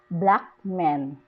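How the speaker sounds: "black" stressed, falling on "man". Shown as a demonstration. Teacher gives an adjective-noun example, stress on "black". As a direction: give "black" the main stress. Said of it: "The adjective takes the main stress".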